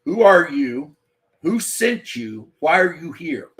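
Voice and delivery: loud, sharp demand at a stranger; challenging someone on your property, loud and hostile; confronting a trespasser. Retold or imitated. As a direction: bark the questions at an intruder. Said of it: "you're gonna be like".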